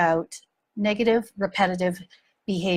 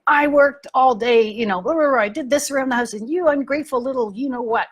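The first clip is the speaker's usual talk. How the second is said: resentful inner rant; 4 semitones higher than usual. Retold or imitated. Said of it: "I'm thinking in my head".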